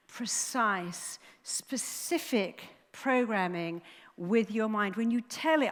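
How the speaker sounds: normal talking voice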